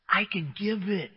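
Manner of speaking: I can give it said softly, quietly; softly as Jesus. Acted. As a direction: offer it gently, almost under the breath. Jesus's answer, voiced by preacher.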